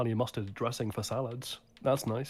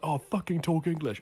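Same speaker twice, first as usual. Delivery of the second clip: higher, louder, drawn-out mock complaint; slow exasperated grumble, pitched up; annoyed; 7 semitones higher, 5 dB louder than usual. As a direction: imitate an irritated commenter. Acts out an annoyed commenter.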